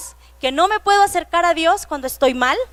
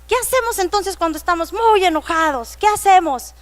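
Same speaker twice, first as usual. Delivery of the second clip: higher, bright question to the class; eager teacher voice; 4 semitones higher than usual. Retold or imitated. Teacher quizzing children in Sunday class, excited and higher. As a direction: ask the kids as if it's a game. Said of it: "estábamos bien emocionados y les dije".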